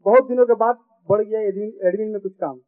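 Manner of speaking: comic verse recited with each line repeated; sing-song stage reading for a laughing crowd; poem recitation. Acted. Poet reciting a comic poem to the audience, rhythmic stage recitation.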